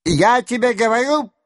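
high and quick, a moderate shout; insist, raising the voice. A narrator's reading. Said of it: "закричал Денисов".

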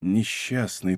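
soft, hushed pity; whispered pity. A narrator's reading. Athos pities the drowning Mordaunt, hushed. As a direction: breathe the word with pity. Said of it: "прошептал он".

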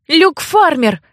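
almost shout the name at him; near shout. A narrator's reading. Girl pressing the archivist, nearly shouting. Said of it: "Почти выкрикнула я".

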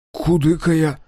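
choked, tight-throated admission; frightened craftsman confirming to the boyar; strangled confirmation. A narrator's reading. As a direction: squeeze it out nervously. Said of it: "сдавленно подтвердил Кудыка".

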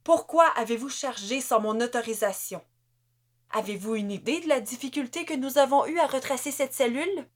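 rising, fast angry tirade; officer berating a soldier, speeding up; violent reprimand. Acted. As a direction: tear into the soldier. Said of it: "Elle l'apostropha violemment".

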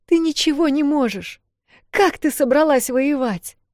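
angry outburst. Acted. Эл scolding her sister, angry shout. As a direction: cut her down in exasperation.

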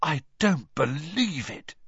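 stunned, slow disbelief. A narrator's reading. Ron stunned as the Durmstrang party passes. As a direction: say it like the sight has floored him. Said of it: "Ron said in a stunned voice".

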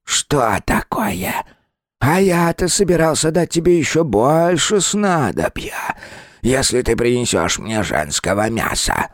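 slow, high, sulky spirit; displeased. Acted. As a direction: let the annoyance drip. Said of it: "голос зазвучал недовольно".

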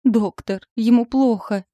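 panicked wife wailing for the doctor. A narrator's reading. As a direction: wail for the doctor in alarm. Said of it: "заголосила".

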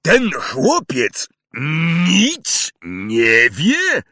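loud, slow, heavy stress on ten; roaring. Acted. Hagrid to the Dursleys, slow roar. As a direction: roar each word out in disbelief. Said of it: "ryknął na nich".

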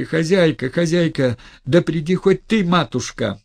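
high, loud call to the landlady. Acted. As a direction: shout for help across the house. Calling out for the landlady.

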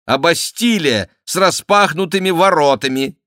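loud, high sarcastic outburst; mocking, indignant refusal; scornful retort. A narrator's reading. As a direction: throw the trap back in her face. Duke scornfully rejects offer.

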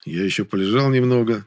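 usual speaking voice

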